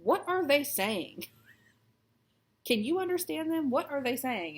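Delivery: high, loud bewildered questions; baffled asking. Retold or imitated. Wife asking husband about a reality show, baffled. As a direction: plead in confusion to the husband. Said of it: "just be like".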